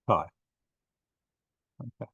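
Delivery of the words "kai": "chi" said on its own as KAI; English CHI. Shown as a demonstration. Teacher modelling the letter's name for students, "chi" as kai. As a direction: model "chi" with a hard k, rhyming with sky. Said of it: "So we pronounce it as".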